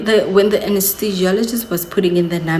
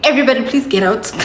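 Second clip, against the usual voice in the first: mock diva telling everybody please get out, fast; a hammed-up order to clear the room; dramatic demand; 4 semitones higher, much faster than usual. Mother in labour, hammed up, ordering everybody out. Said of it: "It was giving".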